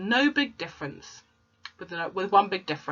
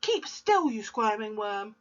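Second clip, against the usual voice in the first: high sharp command; snapping order; 4 semitones higher than usual. Acted. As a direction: snap at the wriggling boy. Shaking the boy.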